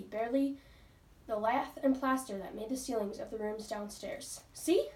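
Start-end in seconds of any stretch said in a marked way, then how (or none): 4.5-4.9 high, louder eager cry; excited cry. A narrator's reading. Daisy shows Ramona the attic, excited cry. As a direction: call it out like a thrilled child. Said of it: "cried Daisy".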